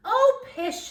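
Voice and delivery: high, loud pooh-pooh; dismissive scoff. Acted. Mother brushing off the teasing, high and scoffing. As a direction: wave the teasing away.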